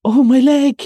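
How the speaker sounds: pained high exclamation; cried out in pain. Acted. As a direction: cry out over a hurt leg. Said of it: "he cried".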